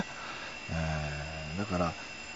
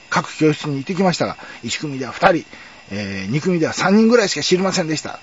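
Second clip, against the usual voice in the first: raised, eager schoolboy explaining himself; louder, higher, talking fast to win the teacher over; retold plea to teacher; 3 semitones higher, 5 dB louder than usual. Schoolboy telling teacher the rumor is cleared, raised and eager. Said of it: "って言って".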